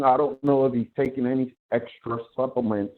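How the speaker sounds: muffled mic, phone tucked away. Real, not acted. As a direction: sound smothered, like through cloth. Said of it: "you sound muffled".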